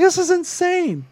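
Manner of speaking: high-pitched, drawn-out disbelief; slow squeaky shock; shocked outburst. Retold or imitated. Retold own outburst, high.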